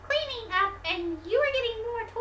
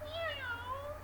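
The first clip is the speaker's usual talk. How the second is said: cat meow; 4 semitones higher, 14 dB quieter than usual. Acted. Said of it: "And the cat said".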